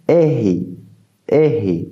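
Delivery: R said as a throaty h sound; Portuguese R. Shown as a demonstration. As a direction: model the Portuguese R. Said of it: "elle se prononce". (R guttural portugais)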